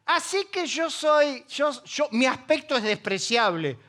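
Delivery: slow, laughing through mock outrage; laughing retort. Pablo laughs back at critics, slow mock outrage. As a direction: laugh it off as you repeat the charge. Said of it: "Entonces Pablo recibe y dice".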